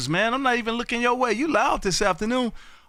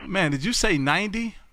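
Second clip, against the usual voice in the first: mild surprise. Real, not acted. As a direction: check the number in mild disbelief. First reaction to surprising count.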